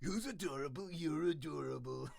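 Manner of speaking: lightly voiced princess, cooing; cartoon princess. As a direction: coo it like a princess. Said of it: "there's your Disney princess impression".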